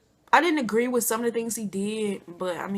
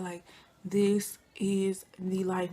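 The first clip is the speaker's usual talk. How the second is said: dreamy slow sigh; 3 semitones lower, 4 dB quieter, much slower than usual. Retold or imitated. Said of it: "So I'm like".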